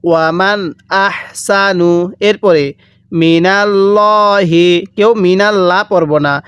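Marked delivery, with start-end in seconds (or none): 0.0-1.9 "ওয়ামান" with its n sounded distinctly before "আহসানু"; clear noon sakin. Shown as a demonstration. Teacher shows students the clear noon, "ওয়ামান" n kept distinct. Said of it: "কিভাবে পড়ব?". 3.1-4.7 "মিনাল্লাহি" with a full, thick "আল্লাহ" lam, slowly; heavy lam in Allah. Shown as a demonstration. Teacher shows heavy lam, "মিনাল্লাহি" slow and thick. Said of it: "আল্লাহ মোটা করে পড়তে হবে".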